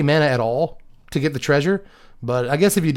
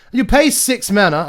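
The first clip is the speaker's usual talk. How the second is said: slow, higher, badly faked British; British accent; 8 semitones higher, 4 dB louder than usual. Card reviewer reading the cost in a badly faked British accent. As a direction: attempt a careful British accent. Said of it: "I can't do a British accent".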